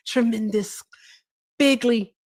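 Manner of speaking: light impression, one word at a time; Donald Trump. Showing viewers Trump's favourite words, lightly imitated. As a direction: pet superlatives, set apart and falling away. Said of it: "That is my Trump impression".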